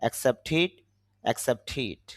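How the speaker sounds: অ্যাকসেপ্টেড ending in "tid", not "ted". Shown as a demonstration. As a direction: say the end of অ্যাকসেপ্টেড with a short i after t. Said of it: "রস্বইকারের মতো করবো". (অ্যাকসেপ্টেড-এর শেষে "টিড", "টেড" নয়)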